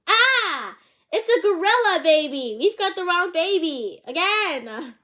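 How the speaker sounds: high, loud panicked shout; yelling in alarm. Acted. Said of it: "they both yelled".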